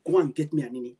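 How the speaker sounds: demanding question. Retold or imitated. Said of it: "Simple question".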